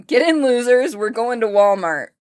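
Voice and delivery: squeaky high gremlin voice; loud squeaky gremlin bit. Acted. Gremlin intro voice.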